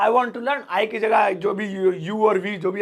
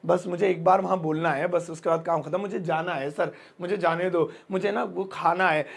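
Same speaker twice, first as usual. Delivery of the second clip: reluctant, forced; 4 semitones lower, 3 dB quieter than usual. Shown as a demonstration. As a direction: lower and softer, dragging the words out of necessity. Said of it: "मजबूरी में कोई चीज बोले". (मजबूरी में धीमे, बेमन से बोलना)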